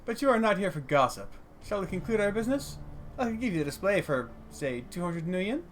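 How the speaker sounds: businesslike dwarf merchant, lightly played; gently steer the customer toward the deal; lightly voiced dwarf trader. Voices dwarf stallholder in game.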